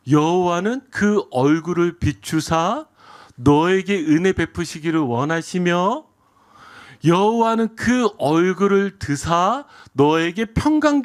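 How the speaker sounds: slow, measured benediction; scripture blessing. Acted. Pastor reciting Aaron's blessing to the congregation, slow and solemn. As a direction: pronounce it solemnly over the people, drawing out the phrases.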